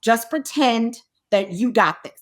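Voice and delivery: low, measured self pep talk; psyching herself up. Retold or imitated. Actress to the bathroom mirror before the scene, self-coaxing. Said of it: "psyching myself up in the mirror".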